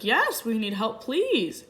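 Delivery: retold urgent appeal, lifting on the last word; urgent plea. Wife begging a driver for help, urgent retold plea.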